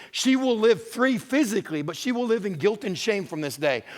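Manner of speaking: climbing sermon intensity; rising preaching emphasis. Real, not acted. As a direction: preach it up with force.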